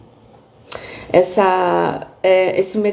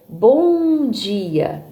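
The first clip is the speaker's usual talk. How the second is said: "bom dia" drawn out with a swelling, falling melody; melodic intonation. Shown as a demonstration. Teacher shows intonation in "bom dia", melodic and drawn out. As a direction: stretch BOM in "bom dia", then glide down. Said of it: "se eu falar aqui pra vocês aqui".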